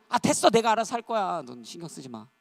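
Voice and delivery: loud, high, irritated brush-off; acted anger. Dieter rejecting a friend's interference, acted anger. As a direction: push the helper away crossly. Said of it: "막 화내요".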